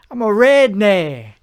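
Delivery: redneck said slow, the final ck barely sounded, no harsh ch; saying redneck softly clipped. Shown as a demonstration. Demonstrating how to say redneck without the harsh ending. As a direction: drop the hard ending on redneck, say it soft. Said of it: "You gotta say redneck".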